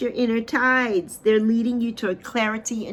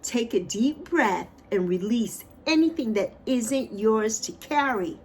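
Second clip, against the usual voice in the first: repeated a little slower, ending drawn out on "carry". Shown as a demonstration. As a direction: say it again, letting "yours to carry" slow down. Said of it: "Let me say that again".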